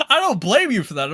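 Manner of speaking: mock the other man's reassurance; mocking echo. Commentator parrots the ranter for laughs, mocking. Mockingly echoing the previous speaker's words.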